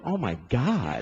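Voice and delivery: shocked wife. Retold or imitated. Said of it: "She comes in the cellar".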